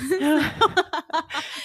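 high burst of laughter; laughing. Real, not acted. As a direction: crack up mid-restart. Cracking up over restarting.

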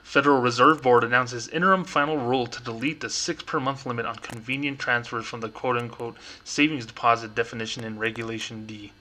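formal banker reading. Shown as a demonstration. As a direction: read it like an official bank notice. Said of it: "I'm gonna put my banker voice on".

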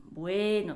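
ボエーノ with a long stretched middle; ボエーノ, the elongated bueno; drawn-out bueno. Shown as a demonstration. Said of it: "っていうやつですね".

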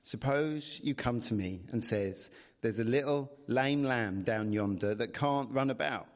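put-on light rustic English accent; lightly voiced countryman's accent; shepherd's country accent. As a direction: patiently explain in a shepherd's rural dialect. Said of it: "whether I should do an accent".

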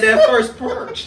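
put-on country accent. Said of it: "You know I got country accent".

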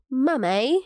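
put-on child's British "Mummy", ending lifted; little British accent. Parent imitating daughter calling her, little British accent. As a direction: mimic a little girl gone British. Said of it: "talk in her little British accent".

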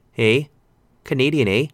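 lightly put-on Canadian accent; shaky Canadian accent. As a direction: attempt a mock Canadian accent. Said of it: "probably not the best Canadian accent".

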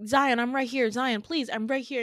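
pleading reassurance, acted; comforting. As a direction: try to reach a panicking friend. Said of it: "trying to comfort him".

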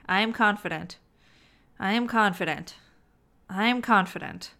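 flat, bored, sarcastic repetition; low vibe sarcastic chant. Shown as a demonstration. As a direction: say it like a tired chore. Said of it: "hear my sarcasm".

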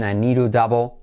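"to" with the T tapped like a soft R. Shown as a demonstration. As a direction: flap the T of "to" lightly in "need to". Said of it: "T como R suave también".

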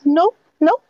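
put-on high prissy little girl voice; Girl Scout voice. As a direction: play the indignant cookie seller. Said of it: "That's a Girl Scout cookie voice".

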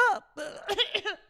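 a staged, exaggerated cough; acted cough. Acts out coughing at salon.

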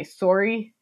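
Canadian "sorry" with a rounded first vowel; lightly imitated Canadian "sorry"; Canadian accent. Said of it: "the way that Canadian people say".

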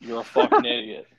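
loud, high jab at the driver; mock insult. Real, not acted. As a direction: call him out to his face. Insults driver Ty Gibbs directly.

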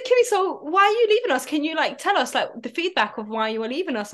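high, sugary imitation of a company rep; mock brand voice. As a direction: play the pleading brand rep, lightly. Retold brand message, high voice.

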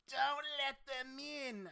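high, loud, drawn-out warning wail; grandma calling out. Retold or imitated. Grandma in the background warns Sadie, hammed-up high yell. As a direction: stretch it out like a grandma yelling from behind. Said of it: "Grandma Foss in the background, she's like".

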